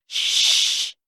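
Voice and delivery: hushed urgent whisper; a sister hushing her brother in a whisper. A narrator's reading. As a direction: whisper so the guards can't hear. Whispering near the guards.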